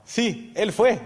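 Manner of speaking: high, loud blurted accusation; sudden high exclamation; excited outburst. Retold or imitated. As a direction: point him out with a sudden burst. Pointing out the man who hit him.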